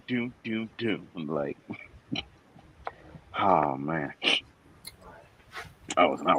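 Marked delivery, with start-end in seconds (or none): 0.1-1.1 monster footsteps. Pretend. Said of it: "the sound that the monsters make".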